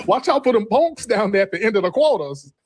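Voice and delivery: put-on high, sing-song auntie voice calling everyone baby; New Orleans local. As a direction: play a sassy New Orleans auntie scolding you away from the Quarter. Continues the auntie voice.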